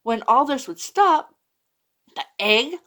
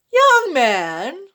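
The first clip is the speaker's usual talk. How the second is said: a touch of a stern teacher calling out; teacher greets a late pupil, mildly stern; 4 semitones higher, 7 dB louder than usual. Acted. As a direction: scold the late boy, lightly voiced. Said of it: "said Miss Block".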